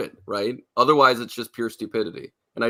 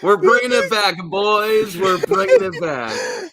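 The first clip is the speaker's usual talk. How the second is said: excited; 10 semitones higher, 6 dB louder, slower than usual. Real, not acted. Cheering a returning catchphrase.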